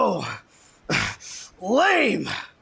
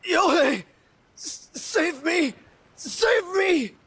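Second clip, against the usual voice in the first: calling for help; 7 semitones higher than usual. Acted. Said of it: "using his final breaths to call on you for help".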